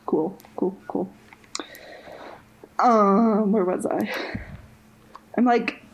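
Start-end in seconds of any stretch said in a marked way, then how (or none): 5.4-5.8 breathless, fast talking; out of breath. Real, not acted. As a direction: speak short of breath, rushing. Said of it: "I'm, like, out of breath".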